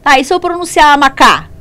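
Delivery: student voice. Pretend. Teacher voices a student's question.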